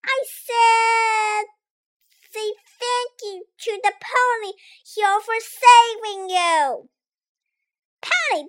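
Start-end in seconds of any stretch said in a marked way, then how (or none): 0.1-6.9 insistent repeat. Acted. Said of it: "did that funny little doggy say something?".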